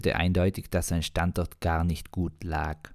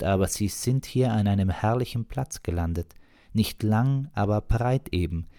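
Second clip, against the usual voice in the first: higher, chatty woman's voice; 6 semitones higher than usual. Acted. Margret chatting to the stranded driver, higher chatty voice. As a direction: chat up the stranger in a high friendly voice.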